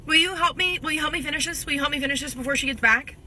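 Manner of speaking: put-on pleading kids. Kids begging for homework help.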